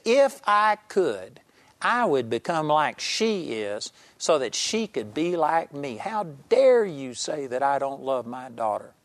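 retold indignant yell. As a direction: imitate an offended father insisting on his love. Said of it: "he yelled at me".

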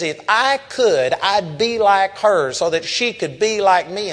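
retold incensed outburst. Father wishing to trade places with his daughter, acted incensed. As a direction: push it out like an outraged father. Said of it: "he was just incensed".

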